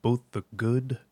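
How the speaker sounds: low, soft, measured commander's address; Zavala. Acted. Commander addressing Guardians at Solstice, low and measured. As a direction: deliver it as a solemn commander, quiet and deliberate. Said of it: "Vanguard Commander Zavala".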